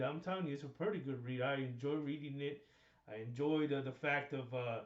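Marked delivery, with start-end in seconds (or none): 3.1-4.8 talking through a face mask; muffled behind a mask, mouth covered. Real, not acted. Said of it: "You know, my mouth is covered".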